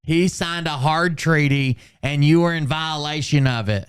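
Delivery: mock declaration. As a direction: parrot her accusation with mock gravity. Mimics the woman in the clip.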